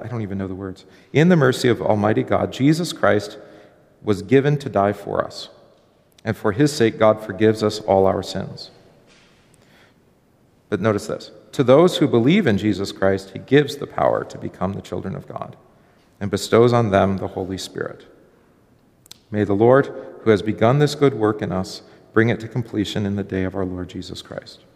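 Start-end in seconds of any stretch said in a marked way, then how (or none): 1.1-8.7 formal church recitation, firmly stressed; liturgical reading. Acted. Pastor reading the absolution to the class, formal recitation. 11.5-24.6 formal church recitation, firmly stressed; liturgical reading. Acted. Pastor reading the absolution to the class, formal recitation.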